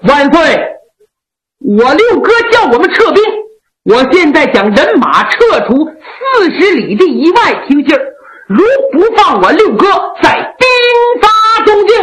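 officer threatening the emperor to free his brother. Acted. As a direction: bluff and scare the emperor. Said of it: "故意的拿话吓唬赵恒".

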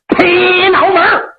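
slow, drawn-out battle cry. Acted. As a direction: drag the call out as you swing the axe. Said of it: "嘴里还喊呢".

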